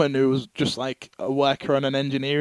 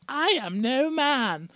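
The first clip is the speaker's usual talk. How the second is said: defiant heroine; 10 semitones higher, much slower than usual. Retold or imitated. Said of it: "She just goes".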